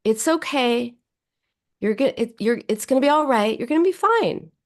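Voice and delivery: comforting a friend who is struggling; warm reassurance. Shown as a demonstration. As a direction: say it like a verbal hug. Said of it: "because you can say the same words".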